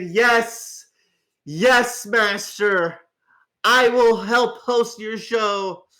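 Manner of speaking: hammed-up groveling to a dark master; servile minion. Agrees to serve the tempter.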